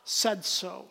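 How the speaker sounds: a fed-up dad laying down the law, slowly; preacher mimicking a ticked-off dad with "because I said so"; angry parent. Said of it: "And I said".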